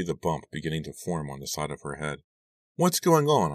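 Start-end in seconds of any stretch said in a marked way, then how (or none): 2.8-3.5 high, puzzled wondering; wondering aloud. Acted. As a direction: ask yourself, baffled. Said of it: "I wondered".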